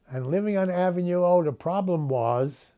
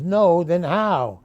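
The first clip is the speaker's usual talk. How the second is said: louder and slow, baffled; baffled demand; 2 semitones higher, 6 dB louder, slower than usual. Acted. Old man Sam asks Selma how she knew, louder and slow. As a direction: drag it out, puzzled and louder.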